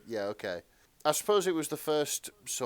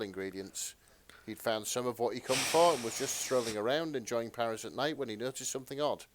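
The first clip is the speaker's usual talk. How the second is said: reading a summary aloud; 2 semitones higher than usual. Shown as a demonstration. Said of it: "the summary is".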